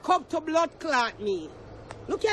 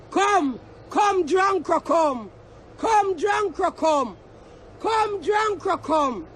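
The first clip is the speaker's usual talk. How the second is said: slow shouted dare; slower than usual. Real, not acted. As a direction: shout it slowly, every word weighed. Calling out a challenge.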